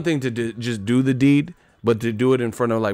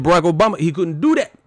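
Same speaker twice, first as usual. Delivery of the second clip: Roy Jones voice; 6 semitones higher, 3 dB louder, faster than usual. Retold or imitated. Comic voices Roy Jones ranting, higher and louder. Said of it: "That's how Roy Jones would do it".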